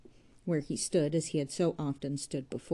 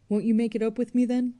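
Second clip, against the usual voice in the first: higher, louder pleading; coaxing plea; 7 semitones higher, 8 dB louder than usual. Acted. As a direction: win him back, insistently. Arabella coaxing Jude to reconcile.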